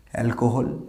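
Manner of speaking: অ্যালকোহল as "al-ko-hol"; common mispronunciation. Shown as a demonstration. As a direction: say অ্যালকোহল with a round "ko". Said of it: "এই ওয়ার্ডটাকে কী বলি আমরা". (ভুল অ্যালকোহল, "কো" দিয়ে)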